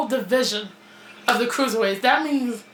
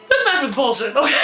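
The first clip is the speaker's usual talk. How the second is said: laughing rant; 3 dB louder, faster than usual. Real, not acted. Ranting about a match result.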